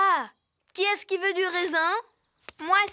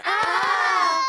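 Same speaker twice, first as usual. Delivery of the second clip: mock fright; 5 dB louder than usual. Kids told of crocodiles.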